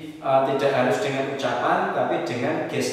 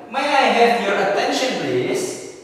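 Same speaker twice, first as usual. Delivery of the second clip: polite; 6 semitones higher, 3 dB louder than usual. Shown as a demonstration. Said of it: "Ini yang lebih sopan".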